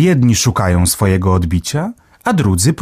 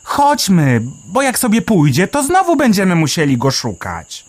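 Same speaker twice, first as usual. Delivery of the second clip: a small bird marvelling, pitched way up; Melek the sparrow; 10 semitones higher than usual. A narrator's reading. Sparrow Melek marvelling underground, high chirpy voice.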